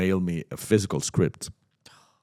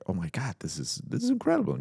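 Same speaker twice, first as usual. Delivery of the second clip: elated; 3 semitones higher, 3 dB quieter than usual. Retold or imitated. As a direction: marvel softly, then squeak with joy. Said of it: "I was incredibly elated".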